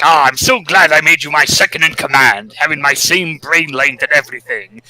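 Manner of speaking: lightly voiced gloating villain. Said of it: "Robotnik's just gloating".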